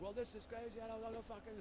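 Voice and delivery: mild mock outrage; retold yelling. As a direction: imitate a man yelling in protest. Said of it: "And he's yelling".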